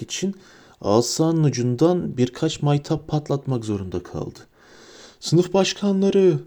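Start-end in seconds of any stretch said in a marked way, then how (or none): 5.2-6.4 higher, slow, booming headmaster's call. A narrator's reading. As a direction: roar it over the chaos to the hall. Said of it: "diye gürledi". (salonu bastıran gürleyen sesle)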